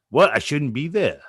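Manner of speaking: a light Massachusetts accent, mock tough. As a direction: imitate a Boston guy with a Massachusetts accent. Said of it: "that's your Massachusetts accent?".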